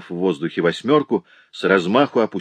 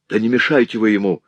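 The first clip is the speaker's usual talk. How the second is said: a touch of a harsh shout; shouting woman; 3 semitones higher, 3 dB louder, faster than usual. A narrator's reading. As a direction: egg him on with a cry. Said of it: "закричала тыква".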